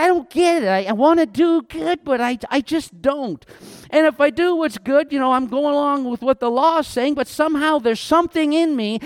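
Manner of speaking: mildly exasperated confession; baffled frustration. Acted. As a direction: voice Paul's bafflement at himself. Acted plea of baffled Paul.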